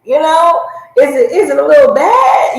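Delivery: lightly reenacted self-doubt; self-questioning. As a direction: lift it high as if checking yourself.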